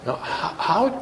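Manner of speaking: ordinary talk, nothing marked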